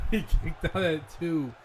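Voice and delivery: loud, slowed stunned call; excited. Acted. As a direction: sell the shock of the kickout. Stunned kickout commentary.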